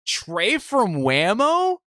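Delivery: imagine a stranger spotting him and calling out, high and drawn out; hammed-up fan shout across a room; mock excited fan call. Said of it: "somebody goes".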